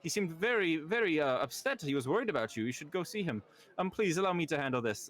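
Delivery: high, showy lord calming his party guests; pompous host. Acted. Lord hushing his party guests, pompous and high. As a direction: boom it out like a vain birthday host.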